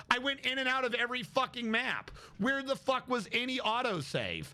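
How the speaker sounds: real annoyance, pitch pushed up; incredulous rant without shouting; annoyed. Real, not acted. Gamer complaining that thirty minutes went unsaved, annoyed. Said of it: "I'm so fucking annoyed".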